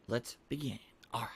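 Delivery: hushed whispered start. Real, not acted. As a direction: whisper it as you begin. Quietly starting the game.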